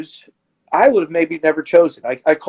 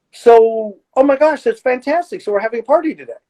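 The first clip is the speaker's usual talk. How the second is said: mock celebration; 4 semitones higher than usual. Therapist mock-celebrating a relapse.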